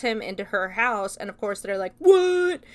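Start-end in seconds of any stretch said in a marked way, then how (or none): 2.0-2.6 high, loud disbelieving yelp; shocked what. Retold or imitated. Boys seeing brother taken inside, shocked yelp. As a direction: blurt it out in total shock.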